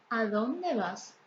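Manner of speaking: slow question with the stress on "dónde"; example question. Shown as a demonstration. Teacher modelling a direct question for students, slow and stressed. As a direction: say "¿a dónde vas?" slowly, leaning on "dónde" and falling at the end. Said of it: "Por ejemplo".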